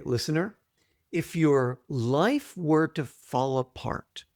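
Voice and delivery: guided exercise voice. Acted. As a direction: lead the listener gently into the question. Guides listener through exercise.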